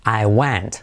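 "went" with a wide open E, nearly "want"; E almost A. Shown as a demonstration. Teacher pointing out the vowel, "went" with E almost A. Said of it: "casi como una A".

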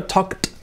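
"talked" as "tokt", one syllable; added final T. Shown as a demonstration. Teacher drilling the past form, "talked" with audible final T. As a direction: release a separate T after the K of "talked". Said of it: "añadir la T allí".

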